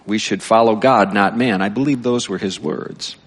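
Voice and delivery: lightly projected story reading; reading aloud. A narrator's reading. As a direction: read it out emphatically to a congregation. Reads book aloud.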